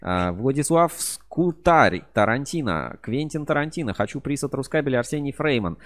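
hyped giveaway announcement. Real, not acted. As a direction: call out each name like prizes. Reading out contest answers excitedly.

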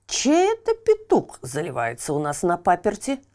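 put-on curious old watchman voice; lightly voiced watchman; puzzled watchman. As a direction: wonder aloud about the crowing. Watchman wonders.

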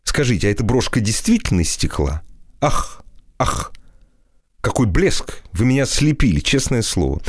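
high, gushing mock praise; a lightly voiced gushing wit; provocative wisecracking. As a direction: tease her with mock rapture. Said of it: "вызывающе острить".

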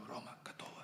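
whispered, unvoiced. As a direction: breathe it out as a whisper. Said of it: "Я говорю".

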